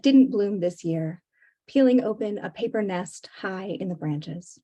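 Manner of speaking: measured, deliberate poem reading; poetry reading. Acted. Poet reads to book-launch audience, measured poetry reading. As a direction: read it line by line, pausing between images.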